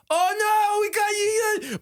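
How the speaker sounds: very high, loud teasing shout; gleeful group taunt; mocking taunt. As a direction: jeer at your buddy's blunder. Friends mocking a bad pick.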